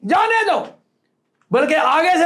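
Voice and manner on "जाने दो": जाने दो high, falling at the end; positive reading, set apart. Shown as a demonstration. Telling gatekeeper to let brother through, जाने दो set apart. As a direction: give जाने दो as a separate high call. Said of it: "अगर इसको positively लेंगे".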